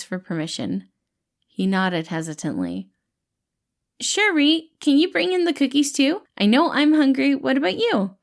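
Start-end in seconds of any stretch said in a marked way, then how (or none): 4.0-8.2 higher, louder friendly reassuring voice; gentle dad-like rescuer, pitched up and bright; cheerful caretaker Patton. Acted. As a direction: play the kind, upbeat helper calming a scared kid. Patton calls to Remus.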